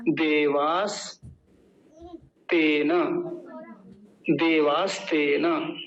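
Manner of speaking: देवास then तेन, very slow with long pauses between; slow repeat-after-me. Shown as a demonstration. Teacher asking students to repeat after him, very slow. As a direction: lead the class through देवास तेन piece by piece. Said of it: "तो मेरे साथ बोलिए".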